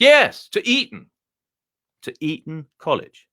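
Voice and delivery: a high, plummy Etonian dog, pleased with itself; the dog boasts in a high, refined voice; posh dog voice. Acted. Telling the visitor about his schooling, high and plummy. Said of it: "That's why I learned to speak like this".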